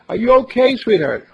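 loud, high call down the cliff. Acted. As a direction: shout down to find him. Calling down the cliff.

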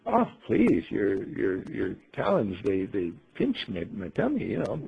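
a hint of a fussy lady's plea; Ingeborg pleading with bird. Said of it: "And she said to the birdie".

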